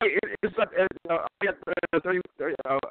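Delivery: windy, breaking-up phone line; noisy, distorted call audio; bad phone line. Real, not acted. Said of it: "It sounds like you're jumping out of an airplane".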